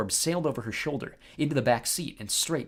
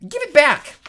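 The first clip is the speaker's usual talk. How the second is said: high, loud demand; demanding shout; 14 semitones higher, 13 dB louder than usual. A narrator's reading. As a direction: shout for it back. Sister demands her eye back.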